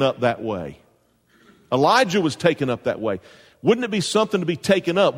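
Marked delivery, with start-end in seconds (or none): 3.6-5.2 excited exclamation. Real, not acted. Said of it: "We're gonna talk about that".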